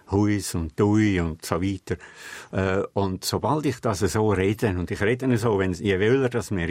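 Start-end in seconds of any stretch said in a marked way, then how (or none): 0.1-1.2 Huis und Dui said slowly with the Innerschweizer ui diphthong; broad Stans dialect vowels. Shown as a demonstration. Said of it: "penetrante Eigentümlichkeiten".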